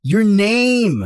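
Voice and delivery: sharp loud demand; yelling. Acted. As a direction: shout it at her. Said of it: "Don't yell at me".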